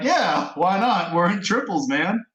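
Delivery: slow, exaggerated fake Southern drawl; telling strangers there are three of them, in a hammed-up Southern drawl; bad Southern drawl. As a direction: drag it out like a bad cowboy. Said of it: "the worst Southern drawl".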